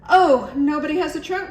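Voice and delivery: high, loud surprised realization; surprised cry. A narrator's reading. Iguana seeing everyone's costumes, high surprised cry. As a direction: discover it with a gasp. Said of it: "cried Iguana".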